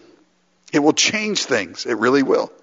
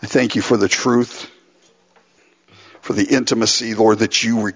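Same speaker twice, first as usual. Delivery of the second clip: lower-pitched, sincere prayer; 4 semitones lower than usual. Real, not acted. Pastor thanking the Father before communion, sincere low prayer. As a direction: pray aloud in measured phrases with pauses.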